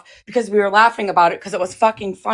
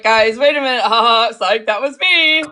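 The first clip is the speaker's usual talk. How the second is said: laughing retold announcement. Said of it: "and I was like".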